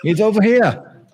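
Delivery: high-pitched jokey English call; hammed-up English accent; mock English accent. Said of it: "That's my English accent".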